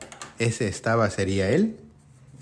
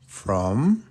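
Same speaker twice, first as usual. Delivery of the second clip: slow demo; much slower than usual. Shown as a demonstration. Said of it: "¿sí?".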